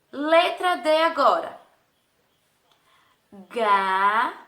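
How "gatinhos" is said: "Gatinhos" in three long syllables with wide gaps; ga, ti, nhos held apart in "Gatinhos". Shown as a demonstration. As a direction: sound out "Gatinhos" very slowly, piece by piece. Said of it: "passar agora para as sílabas".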